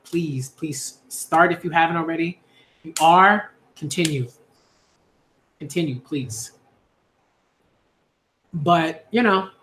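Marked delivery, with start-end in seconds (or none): 0.0-6.5 pleading softly. Retold or imitated. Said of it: "I implore you, I'm like".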